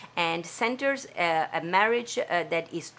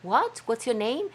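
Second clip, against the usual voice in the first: a touch of disbelief, pitched up; mock surprise; 5 semitones higher than usual. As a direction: pretend not to recognise her. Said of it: "he was like".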